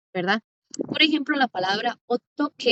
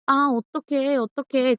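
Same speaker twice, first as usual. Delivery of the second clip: mock fretting "Ah, otoque" with a rising start; drama-style worried exclamation; 3 semitones higher than usual. Shown as a demonstration. Teacher mimicking a drama character asking what to do. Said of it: "la palabra significa cómo".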